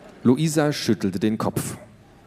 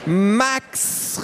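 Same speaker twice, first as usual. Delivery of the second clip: calling out; 12 semitones higher than usual. Acted. Tiffany calls her brother from the terrace, high call. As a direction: call your brother across the house. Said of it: "rief Tiffany".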